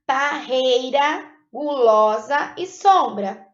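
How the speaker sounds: Parreira, gulosa e sombra said slowly in syllables. Shown as a demonstration. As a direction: sound out Parreira and gulosa for pupils. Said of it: "para separar as sílabas".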